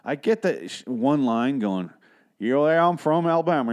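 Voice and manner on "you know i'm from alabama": put-on overdone Southern Alabama accent. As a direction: ham up a thick Alabama accent. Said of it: "the fucking Alabama accent".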